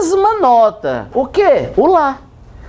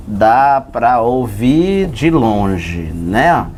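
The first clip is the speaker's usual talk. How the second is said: drawn out, much lower, very slow; 10 semitones lower, much slower than usual. Shown as a demonstration. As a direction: stretch it down low like a far-off moo. Teacher imitates a distant low sound. (bem devagar e grave, arrastado)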